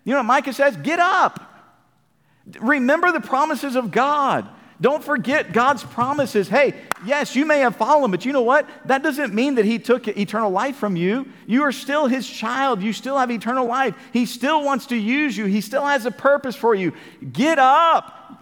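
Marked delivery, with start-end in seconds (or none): 0.8-1.4 high, sharp command to rise; rousing call. Acted. Preacher urging fallen believers. 17.3-18.4 high and loud command to get up; rousing shout. Acted. Preacher urging again, louder.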